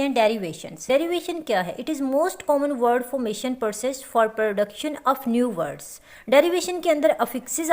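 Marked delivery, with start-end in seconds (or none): 1.8-5.9 slow dictation. Shown as a demonstration. Dictating a definition slowly.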